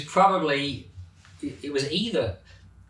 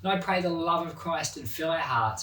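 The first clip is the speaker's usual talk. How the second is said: prayer; 2 semitones higher than usual. Real, not acted. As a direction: pray to the Lord sincerely. Closing prayer.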